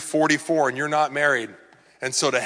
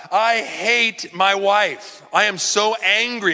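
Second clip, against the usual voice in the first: mock angry confession; 6 semitones higher, 5 dB louder, slower than usual. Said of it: "Tell God".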